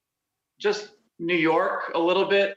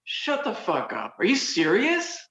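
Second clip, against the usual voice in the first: incredulous. Shown as a demonstration. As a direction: play the amazed friend who can't believe it. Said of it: "It can also be like".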